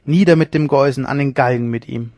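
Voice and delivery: loud gloating. Acted. Leone gloating over the found rival, loud scorn. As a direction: gloat then call for the gallows.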